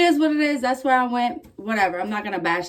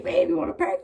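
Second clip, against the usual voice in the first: imitating the boyfriend; 9 semitones higher than usual. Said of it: "my boyfriend's like".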